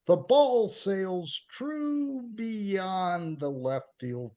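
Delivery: slow, dramatic recital with drawn-out words; poem reading. Acted. Poet reading baseball poem about wife, dramatic recital. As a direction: lift the line openings, stretch key words, let endings drop.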